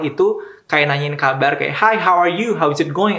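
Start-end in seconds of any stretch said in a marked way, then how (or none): 1.8-3.2 higher, bright greeting to a stranger; imitating cheery American small talk. A stranger greeting you in a store, mock cheery American. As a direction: play a chirpy American asking how you are.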